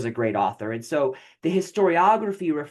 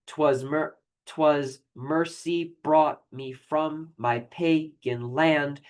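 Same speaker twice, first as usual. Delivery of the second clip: 'twas mercy brought me from my pagan land, very slow, each iambic beat leaned on; stressing the meter; much slower than usual. Shown as a demonstration. Teacher demonstrating iambic stresses, very slow and emphatic. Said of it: "You can hear I land, I, uh, arrive at stresses".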